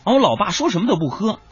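usual speaking voice

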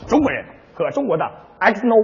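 fast, soft slogan; quick ad tagline. Pretend. Partner rattles off a fast beer slogan. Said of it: "你这广告插的也太多点儿了".

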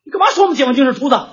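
fast, sharp demand; indignant challenge. Retold or imitated. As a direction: confront him for the insult. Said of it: "喂".

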